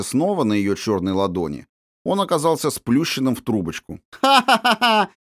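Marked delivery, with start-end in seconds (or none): 4.2-5.1 high, louder peal of laughter; ringing laugh. A narrator's reading. Princess delighted by the flattened coin, ringing laugh. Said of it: "звонко рассмеялась княжна".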